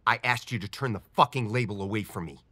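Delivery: irate repeat with the swearword punched; exasperated, forceful demand; losing temper. Acted. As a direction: let the temper break through in one run. Same request repeated, temper breaking.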